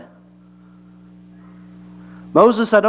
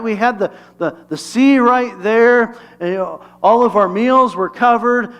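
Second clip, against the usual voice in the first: whiny grumbling Israelite; 3 semitones higher than usual. Retold or imitated. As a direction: moan like a fed-up wanderer in the desert. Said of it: "probably something like this".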